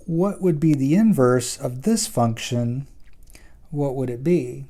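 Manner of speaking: hoarse, voice giving out; raspy whisper. Real, not acted. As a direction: voice fading to a whisper. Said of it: "I'm losing my voice here".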